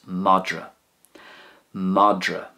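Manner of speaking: madra with the R sounded; Munster madra. Shown as a demonstration. Teacher shows own Munster way, madra with R. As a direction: keep the R in madra. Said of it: "the way it's pronounced in the Munster dialect".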